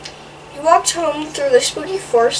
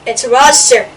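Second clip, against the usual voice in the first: frightened duck cry; 2 semitones higher, 6 dB louder than usual. Acted. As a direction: shriek it like a scared little duck. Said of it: "cried the duck".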